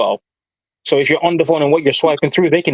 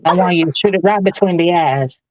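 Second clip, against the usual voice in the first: put-on Southern accent. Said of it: "he called himself impersonating Southern folk".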